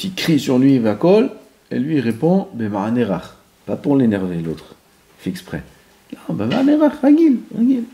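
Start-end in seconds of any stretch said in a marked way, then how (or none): 6.3-7.8 plus haut, appuyé; réponds doucement; insistant. Shown as a demonstration. (insistance, voix haute)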